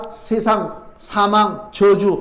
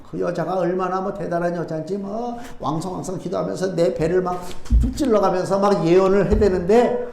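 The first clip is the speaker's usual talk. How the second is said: ordinary delivery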